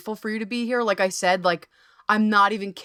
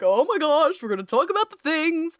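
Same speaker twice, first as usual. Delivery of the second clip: higher, bubbly gush; giddy schoolgirl; 5 semitones higher than usual. Retold or imitated. Host imitating herself before the talk, giddy schoolgirl. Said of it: "I'm like a giddy schoolgirl".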